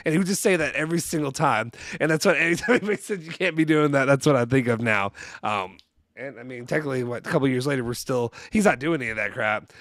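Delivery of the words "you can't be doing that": put-on Southern accent. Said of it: "like, Southern accent".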